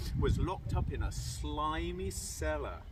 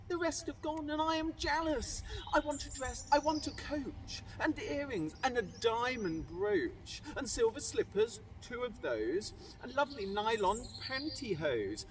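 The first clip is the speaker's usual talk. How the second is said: put-on spoiled demanding girl; 4 semitones higher than usual. Cindy demands finery.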